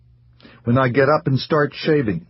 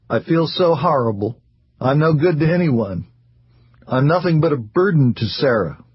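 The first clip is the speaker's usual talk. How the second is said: heavy voice; 5 semitones higher than usual. Acted. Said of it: "The heaviness of his voice".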